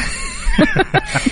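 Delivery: short high squeal of laughter; high giggle. Real, not acted. Host laughs at wrong lyrics.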